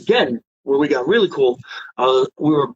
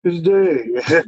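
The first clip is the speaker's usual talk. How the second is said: friend's voice; 3 semitones higher than usual. Retold or imitated. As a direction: echo how his friend talks, barely shifted. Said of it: "You know how he talks".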